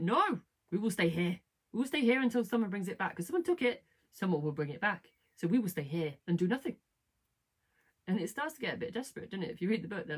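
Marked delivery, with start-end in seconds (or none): 0.0-6.8 insistent, lightly acted refusal; mock stubborn refusal. Character telling his friend they will stay put, mock stubbornness. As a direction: dig your heels in, hammed up a little. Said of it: "And Hall's like".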